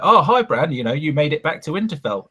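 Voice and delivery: high, overly cheery greeting; mocking Sam's forced greeting; mock chirpy Sam. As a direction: play it awkwardly bright. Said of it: "He's like".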